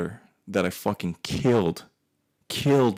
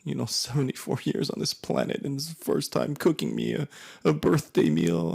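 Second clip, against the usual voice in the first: mom's rant; 5 semitones higher than usual. Retold or imitated. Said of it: "she goes on this rant".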